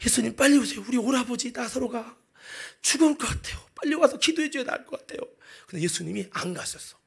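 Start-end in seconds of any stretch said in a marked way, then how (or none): 0.1-5.2 lightly tearful pleading, climbing higher; acted anxious plea. Sister begs Jesus to come to dying brother, acted pleading. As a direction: plead urgently, voice rising.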